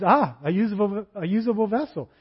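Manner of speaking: a hint of God calling out, pleased; the Holy Spirit spotting a willing servant, mildly grand. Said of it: "Holy Spirit says".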